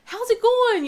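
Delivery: high, loud greeting called across the car line; booming friendly principal; cheerful yell. Retold or imitated. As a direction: call out to every kid by name. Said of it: "I hear him yelling their names".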